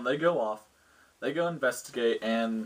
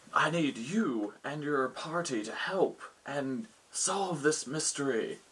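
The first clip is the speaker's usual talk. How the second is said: lightly voiced lord, slow and higher; quest-giving lord; 4 semitones higher, 3 dB quieter, slower than usual. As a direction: hand out a quest with drawn-out, mildly theatrical weight. Lord gives the party a quest.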